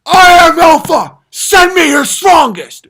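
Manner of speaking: very loud, high, slow bellowed boast; mock alpha boast. Comic mocking a self-proclaimed alpha's challenge. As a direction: bellow it like a cartoon tough guy. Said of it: "Is that when it's like".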